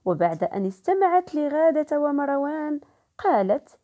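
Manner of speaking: lively opening line of a story, rising at the end; storytelling. A narrator's reading. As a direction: tell عاد الأب إلى البيت as an inviting story opening. Story narration continues.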